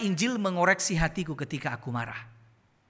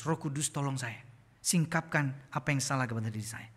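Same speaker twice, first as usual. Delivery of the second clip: quiet prayer; 4 semitones lower, 4 dB quieter than usual. Retold or imitated. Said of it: "kita minta Roh Kudus".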